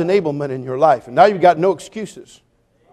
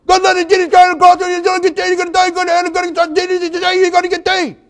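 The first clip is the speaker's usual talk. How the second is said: much higher, much louder garbled preaching yell; slurred street preaching; 13 semitones higher, 5 dB louder than usual. Retold or imitated. Carl preaching to sailors from a trash can, garbled yell. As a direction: shout the sermon with a thick speech impediment. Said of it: "horrible speech impediment".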